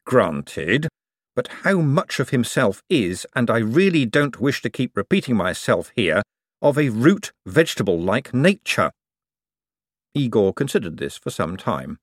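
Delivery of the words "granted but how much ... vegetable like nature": measured, lightly pointed argument; concede, then press the point; mildly exasperated reasoning; Moist conceding, then objecting. Acted.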